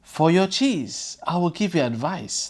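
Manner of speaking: slow, secretive whisper of a crafty fox; sly fox whisper. Acted. Fox teasing the tricked crow, slow sly whisper. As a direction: whisper it slowly, as if sharing a secret.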